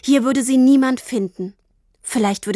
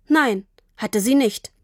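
ordinary delivery

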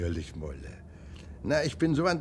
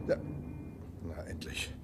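whispered under the breath; relieved whisper; 9 semitones lower, 17 dB quieter than usual. Acted. Hotel guest waiting on a phone line, whispered relief. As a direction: breathe it out, finally connected.

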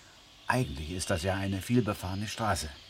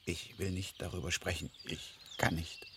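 shaken; 3 semitones lower, 7 dB quieter than usual. Acted. Refuses to talk, shaken.

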